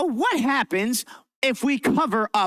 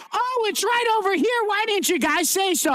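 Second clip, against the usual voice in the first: mock surprise; 10 semitones higher than usual. Teacher hunting for the missing balloon.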